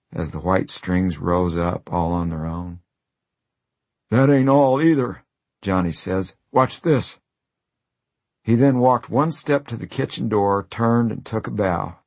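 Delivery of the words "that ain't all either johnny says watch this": louder, high, teasing; playful showman. Acted. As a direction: show off to the room. Johnny shows off, playful.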